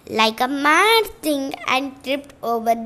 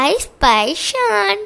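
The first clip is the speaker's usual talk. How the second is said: cheering; 5 semitones higher, slower than usual. Acted. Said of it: "cheered Sania".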